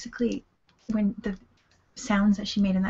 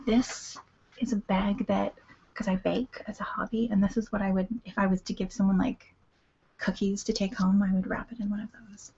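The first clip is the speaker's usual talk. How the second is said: ASMR voice. Acted. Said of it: "just a little A S M R break".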